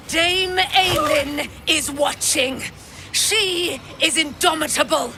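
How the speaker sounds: zealous declaration; rising proclamation. Acted. Paladin's declaration in battle.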